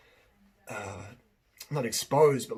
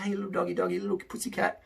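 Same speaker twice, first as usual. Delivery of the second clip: higher-pitched pet-talk; gentle coaxing; 5 semitones higher than usual. Acted. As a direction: coax a shy animal closer.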